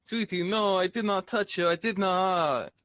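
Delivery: pleading vampire. Pretend. Caught by wife, pleading.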